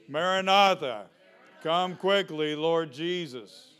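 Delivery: loud, fervent call to the Lord; loud pleading call. Shown as a demonstration. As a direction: cry it out with longing.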